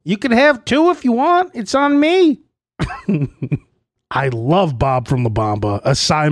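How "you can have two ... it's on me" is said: higher, generous swagger; high swaggering Bob offer; Bob's voice. Retold or imitated. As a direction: play the big spender. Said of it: "he's like".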